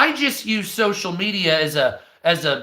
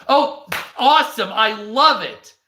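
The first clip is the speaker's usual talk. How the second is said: sarcastic; 4 semitones higher than usual. Retold or imitated. Mocking platform's fake niceness.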